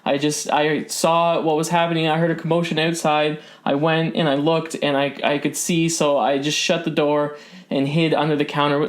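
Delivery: explain, still rattled; shaken shopkeeper. Acted. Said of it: "and she just says".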